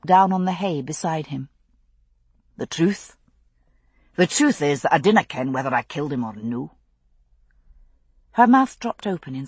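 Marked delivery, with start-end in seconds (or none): 2.6-6.8 low, fast Highland brogue; Scottish father voice. Acted. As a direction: speak as a weary Highlander.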